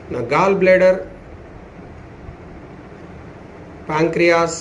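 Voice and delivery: measured affirmations with long falling endings; steady, unhurried relaxation guidance; guided yoga nidra. Acted. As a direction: intone it for listeners to follow, drawing out the last word.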